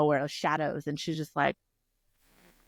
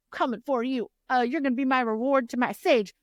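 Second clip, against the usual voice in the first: gloating villain; 6 semitones higher than usual. Retold or imitated.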